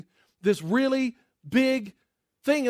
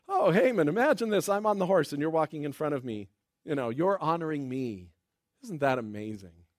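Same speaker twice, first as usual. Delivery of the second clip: mildly taunting, sinking lower towards the end; 5 semitones lower than usual. Acted. Mordecai on horseback to Haman walking ahead, mildly taunting. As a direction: rub it in lightly, without raising the voice. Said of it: "doesn't taunt at least a little".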